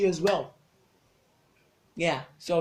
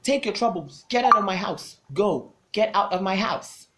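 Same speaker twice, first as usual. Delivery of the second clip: retold man ordering her out, a little louder; gruff order to leave; 4 semitones higher, 5 dB louder than usual. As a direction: throw her out of the house, firm.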